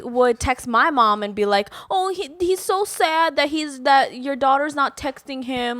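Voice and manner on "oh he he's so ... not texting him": lightly voiced gossiping matchmaker; a hint of a nosy auntie; matchmaker impression. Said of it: "impersonation of the matchmaker".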